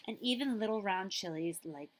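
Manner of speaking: slow hushed whisper. Acted. Librarian slowly whispering to children. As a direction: let it fade into a whisper.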